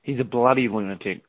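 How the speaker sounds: broad Australian "bloody lunatic", as a demonstration; Australian accent. Shown as a demonstration. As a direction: show off the Australian way of saying it. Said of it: "say with an Australian accent".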